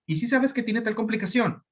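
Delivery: high, sneering mock question; condescending. A specialist belittling a fellow doctor, condescending. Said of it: "hablándote de manera despectiva".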